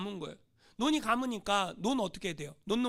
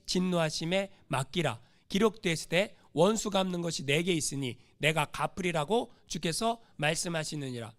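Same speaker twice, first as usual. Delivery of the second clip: lower, measured recitation; scripture reading; 6 semitones lower than usual. Acted. Preacher leading a joint Bible reading, low recital. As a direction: read the verse out solemnly to the congregation. Reads scripture aloud with congregation.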